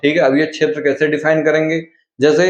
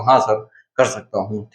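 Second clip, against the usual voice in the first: a softer, lower student voice answering sir; meek student reply; 5 semitones lower, 4 dB quieter than usual. Pretend. Teacher voices pupil replying to himself, softer and lower. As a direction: shrink into a shy pupil.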